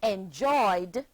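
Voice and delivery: "enjoyed" in two syllables with a D ending; two-syllable pronunciation. Shown as a demonstration. Teacher models the past tense, "enjoyed" in two syllables ending in D. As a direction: say "enjoyed" with no extra vowel before the final D. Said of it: "and is pronounced".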